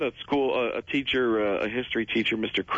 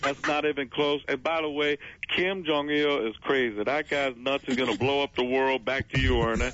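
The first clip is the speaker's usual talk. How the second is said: lightly voiced Barkley, a bit higher; Barkley impression; 3 semitones higher than usual. Retelling his Barkley bit on the TV show. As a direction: TV pundit rambling on crazy. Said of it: "I was doing the voice".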